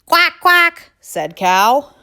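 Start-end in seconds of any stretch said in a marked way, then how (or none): 0.1-0.9 high, loud, short quacks; quacking cow. Acted. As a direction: quack in alarm.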